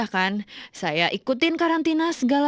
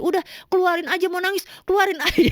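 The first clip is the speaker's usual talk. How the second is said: higher quick urging, breaking into laughter; retold urging; 8 semitones higher, faster than usual. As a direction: imitate an insistent comforter, laughing. Quotes boyfriend urging her to cry.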